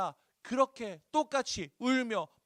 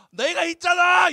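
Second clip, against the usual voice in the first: loud, slow, higher boast from the husband; clueless husband; 9 semitones higher, 12 dB louder, slower than usual. Retold or imitated. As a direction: belt it out like a smug husband. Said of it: "이러고 얼마나 꼴보기 싫어". (눈치 없는 남편의 큰소리)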